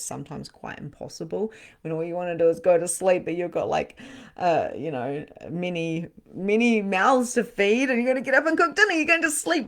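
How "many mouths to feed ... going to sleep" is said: louder, higher push of exasperation; emphatic. Real, not acted. Reader sympathising with a tired mum, loud and exasperated. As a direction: throw it out, exasperated on her behalf.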